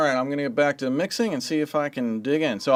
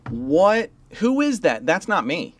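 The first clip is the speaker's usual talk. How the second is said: high-pitched mock disbelief; incredulous, pitch jumping up; astonished reaction; 4 semitones higher than usual. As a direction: act baffled hearing a playback. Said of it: "you're gonna be like".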